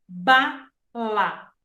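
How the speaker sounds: bala split into two clapped beats, ba and la; syllable by syllable. Shown as a demonstration. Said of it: "eu penso ela em duas vezes".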